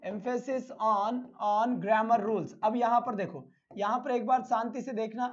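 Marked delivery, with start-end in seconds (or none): 0.0-2.5 emphasis on, said very slowly, word by word; slow read-out. Shown as a demonstration. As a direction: read "emphasis on grammar rules" slowly and clearly, like dictating. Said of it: "क्या लिखा हुआ मैंने?".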